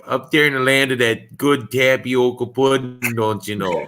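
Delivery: put-on light, playful Upper Midwest Wisconsin accent; a hint of a Minnesota-Wisconsin accent, teasing; mock Wisconsin accent. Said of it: "I always try to imitate the accent".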